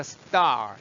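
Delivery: "star" loud with a hard unaspirated t; tense T. Shown as a demonstration. Teacher introducing ST words, tense t in "star". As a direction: tighten the t in "star". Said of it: "뒷소리 난다".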